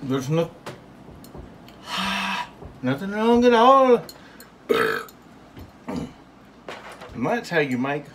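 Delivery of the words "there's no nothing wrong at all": high indignant voice. Pretend. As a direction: answer back high and offended. Answering the squeaky voice.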